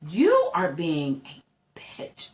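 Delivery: hushed private dig at herself; whispered self-scolding. Retold or imitated. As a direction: whisper it under your breath, scolding yourself. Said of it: "I shouldn't have said that out loud".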